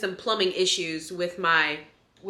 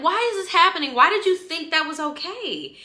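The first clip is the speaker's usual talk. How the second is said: retold disbelief; 9 semitones higher, 4 dB louder than usual. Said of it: "I was so mad".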